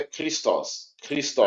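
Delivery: "Christos" opening on a K-like CH before the R; CH sound. Shown as a demonstration. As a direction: say "Christos" with a hard KR onset. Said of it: "é, C H, né?".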